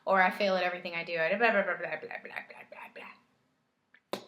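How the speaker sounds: mocking a doubter, trailing off into a faint blah blah; mock self-doubter, fading to mumble. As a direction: whine it, then let it fade. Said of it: "some of you are going".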